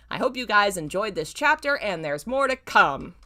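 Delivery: mock past-self voice reading the note; reading her old author's note. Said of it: "a message from the past".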